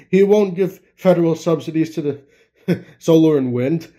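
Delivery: can't stop laughing, real giggles breaking in; laughing while reading. Real, not acted. Podcaster cracking up at the article he reads, laughing. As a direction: read it through helpless laughter. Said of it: "I can't stop laughing".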